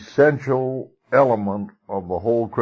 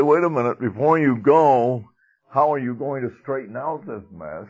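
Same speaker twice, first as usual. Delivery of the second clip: mock stern challenge; 6 semitones higher than usual. Preacher imagining Jesus scolding the woman, mock stern rebuke. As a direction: stop her in her tracks, hammed-up scolding. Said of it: "He didn't say".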